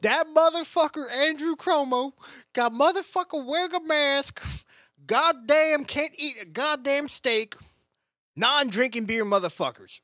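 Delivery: high, loud hammed-up redneck; imitating angry Texans cursing the governor; mock Texan rant. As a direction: rant like a fed-up Texan, slowing on the steak line. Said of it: "what the Texans are saying".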